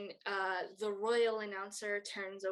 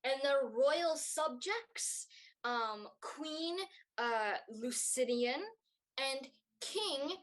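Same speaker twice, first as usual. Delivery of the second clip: royal announcer; 4 semitones higher, slower than usual. Acted. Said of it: "the announcer says".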